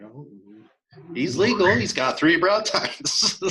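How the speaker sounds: high, loud retold protest, stretched slow; insistent protest. Retelling arguing with the transporter.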